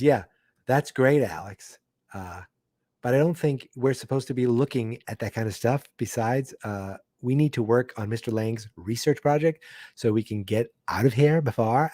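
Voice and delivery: put-on light Valley girl lilt; a hint of a Valley girl reading the line. Recapping a kid's line in a hinted Valley girl voice. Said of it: "talking like I'm a Valley girl".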